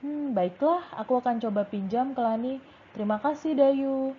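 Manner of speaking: lively role-play reading, lifted pitch; role-play as Beni. Shown as a demonstration. Teacher acting Beni asking a classmate, lively voice. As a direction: read Beni's line with a bouncing tune. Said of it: "Bu Guru yang bertanya".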